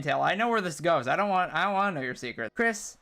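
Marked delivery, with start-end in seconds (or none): 2.5-3.0 deep, slow menacing threat; low sinister villain. Acted.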